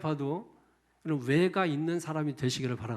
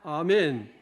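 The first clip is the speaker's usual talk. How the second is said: usual speaking voice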